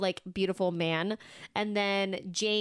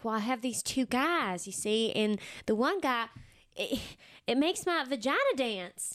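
put-on Southern accent; 2 semitones higher than usual. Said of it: "you do a good Southern accent".

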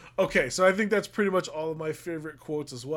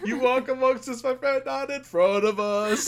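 worked up; 8 semitones higher, 5 dB louder than usual. Retold or imitated. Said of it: "gets all worked up for it".

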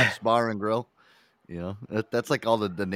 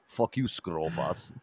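slow, drawn-out mock Greek accent, softer; mock Greek guy; 4 semitones lower, 5 dB quieter, much slower than usual. Friend keeps hamming a slow mock Greek accent. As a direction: playfully curse in a put-on Greek accent. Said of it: "because I'm Greek".

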